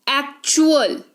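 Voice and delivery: एक्चुअल with the t said as च; ch sound for T. Shown as a demonstration. Teacher showing T's sound in एक्चुअल, said as ch. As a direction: say एक्चुअल with a clear ch after the k. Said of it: "च के तौर पर उच्चारण हो गया".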